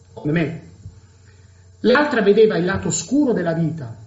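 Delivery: usual speaking voice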